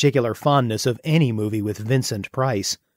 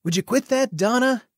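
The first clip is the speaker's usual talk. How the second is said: annoyed; 12 semitones higher than usual. Acted. Annoyed boyfriend objects.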